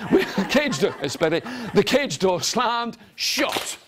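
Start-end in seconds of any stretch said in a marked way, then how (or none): 1.7-3.8 "slammed shut" drawn out, rising onto "shut"; suspense before SHUT. Shown as a demonstration. Storyteller makes listeners wait, slow suspense before "shut". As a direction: stretch it slowly, then land "shut". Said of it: "Wait for it".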